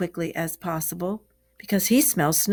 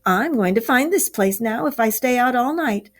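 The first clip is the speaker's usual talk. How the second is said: raised, hearty encouragement; hearty Rat; 4 semitones higher, 3 dB louder than usual. Acted. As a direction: cheer your friend up, a bit louder and higher. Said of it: "said the Ratty heartily".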